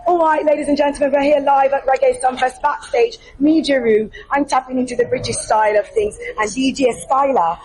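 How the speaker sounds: put-on host tries on a British accent for fun. Host introducing DJ Styler to viewers in mock British accent. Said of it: "You're gonna get in the British accent".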